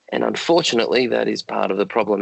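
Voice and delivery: hoarse, croaky late-night voice. Real, not acted. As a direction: speak through a croaky throat. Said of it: "excuse my croaky voice".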